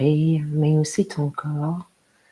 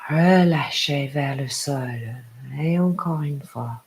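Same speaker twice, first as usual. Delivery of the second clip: guided meditation. Acted. Yoga teacher inviting a parent to hear their heart, guided meditation.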